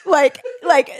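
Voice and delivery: ordinary talk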